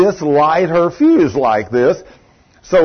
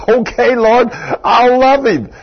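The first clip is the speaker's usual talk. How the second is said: higher, drawn-out, slow resigned promise; wife's reply; 8 semitones higher, 3 dB louder, slower than usual. Retold or imitated. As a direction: play the wife giving in, higher and slow. Wife's surrendered reply to God.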